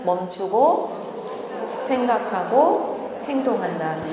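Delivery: each step said very slowly and deliberately; slow, spaced-out demo. Shown as a demonstration. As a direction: spell out the three steps slowly for the audience to repeat. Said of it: "같이 해보실래요?". (천천히 또박또박 시범)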